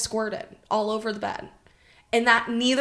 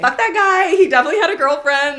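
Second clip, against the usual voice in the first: high, loud fast rant; loud laughing rant; 8 semitones higher, 11 dB louder, faster than usual. Real, not acted. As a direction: shout it while laughing.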